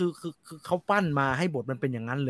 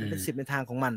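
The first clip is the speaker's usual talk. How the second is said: softer, quieter, to himself; quiet repeat; 5 semitones lower, 9 dB quieter than usual. Real, not acted. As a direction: let the line fall away softly. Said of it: "มันเป็นสิบในทางของมัน นึกออกไหมฮะ".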